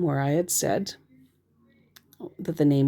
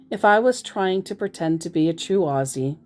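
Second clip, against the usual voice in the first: usual speaking voice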